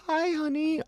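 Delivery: tiny, very high British lady's voice; Sharon Osbourne. Retold or imitated. British wife greeting her husband sweetly, high little voice. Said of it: "in her beautiful little British voice".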